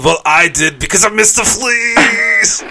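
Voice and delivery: excited. Real, not acted. Punchline pun shouted excitedly.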